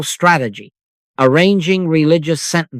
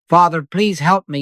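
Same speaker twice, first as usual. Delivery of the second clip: pitched up, hurried plea to God; anxious pleading prayer; 4 semitones higher than usual. Retold or imitated. Worshipper rushing a bargaining prayer to God, anxious pleading. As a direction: rush the plea like a worried beggar. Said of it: "the tongue begins its sprint".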